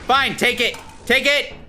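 heated surrender; exasperated yell. Real, not acted. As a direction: give in angrily, flinging the words. Throws loot at creature.

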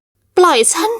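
high, drawn-out cry to let go; desperate plea. Acted. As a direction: stretch it out in panic. Trapped heroine begs release. (หญิงสาวร้องขอให้ปล่อยเสียงสูงลากยาว)

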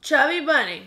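talking round a mouthful of marshmallows; cheeks stuffed full. Real, not acted. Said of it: "shove them in your mouth and have to say chubby bunny".

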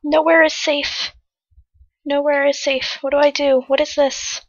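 soft, worried murmuring; hushed dread. Real, not acted. Player hiding with nowhere safe, hushed dread.

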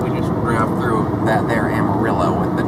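put-on Southern accent. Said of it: "I'm gonna talk like this".

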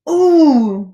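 loud fretful moan; worried ooh. A narrator's reading. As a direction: moan as if wringing hands. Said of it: "wrung his hands".

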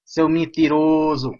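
loud, slow mock accusation; playful loud, slow "you liar"; accusing. Real, not acted. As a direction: call him a liar, drawn out. Accusing another player of lying.

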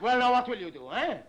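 mocking laugh. Mocking her threat.

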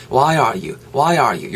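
"why are you" smoothly linked as "why-er-you"; reduced linking. Shown as a demonstration. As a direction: glide through a weak "are" in "why are you". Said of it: "요런 식으로까지 연음이 될 수". ("why are you"를 부드럽게 이어서 발음)

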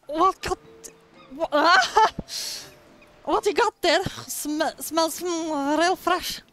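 a game character sniffing the gift, amused. Acted. A hint of a playful character voice greeting Mika.

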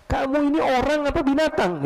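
high-pitched angry challenge, imitated; indignant yelling. Man trodden on scolds the stranger, indignant high yelling. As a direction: play an outraged man telling someone off. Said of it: "Teriak dia".

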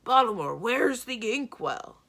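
loud shouts of Ballamore from another room; husband hunting for the inkwell, shouting for his wife; calling from down the hall. A narrator's reading. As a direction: bellow down the corridor for his wife. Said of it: "Doblin's voice echoed down the corridor".

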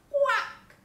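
very high, loud quack; duck's quack. A narrator's reading. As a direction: quack out like a duck. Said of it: "said the duck".

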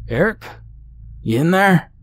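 high call through the front door. A narrator's reading. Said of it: "Henry's familiar voice called from the front door".

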